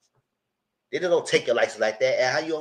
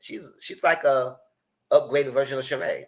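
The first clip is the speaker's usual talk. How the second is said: high, laughing approval; laughing praise; 3 semitones higher than usual. Retold or imitated. About Angela, high laughing praise. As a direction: giggle it out admiringly. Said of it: "I said".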